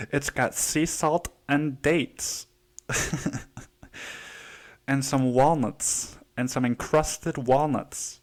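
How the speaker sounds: mom's sing-song sales pitch, lightly mocked. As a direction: drawl out the healthy ingredients like a proud mom. Mocking mom's healthy chocolate.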